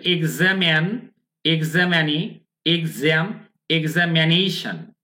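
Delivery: slow list from এক্সামিন to এক্সামিনেশন, each word separate; pronunciation recap. Shown as a demonstration. Teacher summing up the word family, pronunciation recap. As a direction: say each carefully, এক্সামিনেশন ending in "shan". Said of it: "তাহলে".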